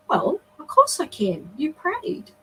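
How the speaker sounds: lightly voiced matter-of-fact child; a hint of an innocent little boy; simple child. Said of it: "like a simple child".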